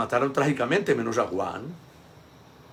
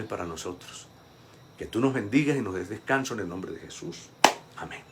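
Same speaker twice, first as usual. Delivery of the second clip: closing prayer. Acted.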